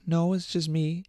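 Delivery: put-on hint at an innocent child on the phone; little kid. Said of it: "maybe ten years old".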